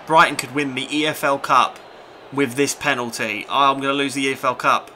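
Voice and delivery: loud panicked groan; loud alarm. Real, not acted. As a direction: blurt out the looming loss. Opponent about to win final.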